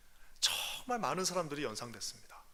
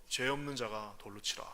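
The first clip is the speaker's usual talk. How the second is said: quiet stern voice; 6 semitones lower, 5 dB quieter than usual. Acted. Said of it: "정말 준엄한".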